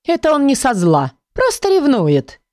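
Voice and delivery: a hint of a soothing companion; voiced character. A narrator's reading. A book calming the heroine, lightly voiced.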